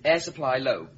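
one word at a time, spelled out; slow it right down for a slow listener; slow and deliberate. Acted. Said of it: "I can't understand a word you're saying".

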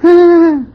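high, loud laugh. Acted. Teases scared friend.

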